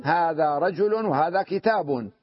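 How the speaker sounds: هذا رجل وهذا كتاب said slowly, tanwin sounded on رجل and كتاب; slow example with nunation. Shown as a demonstration. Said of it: "ماذا تقول؟". (مثال بطيء مع إظهار التنوين)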